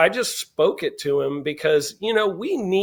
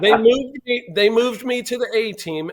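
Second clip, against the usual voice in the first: excited news; 6 semitones higher, 5 dB louder than usual. Retold or imitated. Son's excited news retold.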